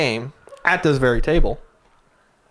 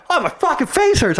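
whiny friend imitation; 13 semitones higher than usual. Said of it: "And he's like".

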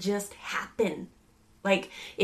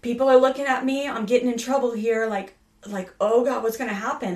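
voicing son's panic; 2 semitones higher, 4 dB louder than usual. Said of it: "It starts to well up like".

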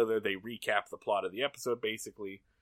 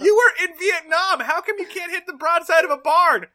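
high, full-volume comic yelling; hammed-up incredulous rant; mock-angry tirade; 13 dB louder than usual. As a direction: chew them out at a shout. Mirror Genie berating the A-Team.

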